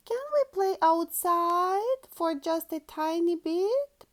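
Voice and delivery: high, bright little-pig voice; Peppa voice. Acted. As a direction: play Peppa, pleading sweetly. Peppa asks to play outside.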